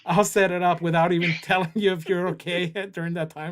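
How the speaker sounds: chuckling through the words; giggling mid-sentence, playful threat; laughing tease. Real, not acted. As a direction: tease him while laughing at your own plan. Laughing while teasing about a surprise contest.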